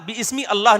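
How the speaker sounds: "بِاسْمِ اللہ" split as bi ismi allah; wrong unlinked reading. Shown as a demonstration. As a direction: sound both alifs in "بِاسْمِ اللہ". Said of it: "نہیں ہوگا".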